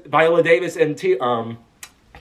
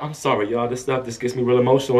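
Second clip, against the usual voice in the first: A singer; 6 semitones lower than usual. Retold or imitated. Star apologising after honoring late actress, mildly tearful imitation. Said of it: "Beyonce starts crying".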